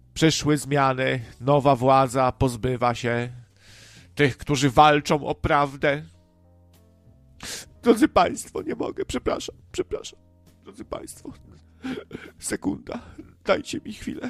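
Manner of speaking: mock weepy newsreader voice, on the verge of tears. Speaker imagines how Holecka would have said goodbye on the news: mock-tearful Holecka impression. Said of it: "jakimś płaczliwym głosem powie".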